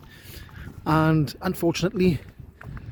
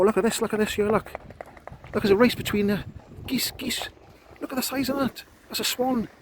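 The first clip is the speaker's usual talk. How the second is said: excited; 5 semitones higher than usual. Real, not acted. Excited at swan and goose race.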